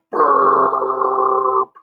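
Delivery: put-on inviting the children to burp along; a sample burp for the kids; kids' burp. Shown as a demonstration. Teacher leading children, playful burp.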